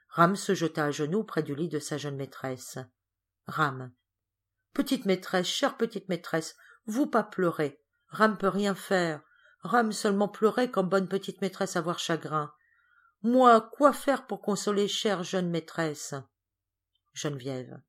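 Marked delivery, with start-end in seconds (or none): 4.7-16.1 lightly voiced, slow, tender servant; devoted servant in broken French. Rame at his young mistress's bedside, gently consoling. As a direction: kneel by her bed and console her humbly.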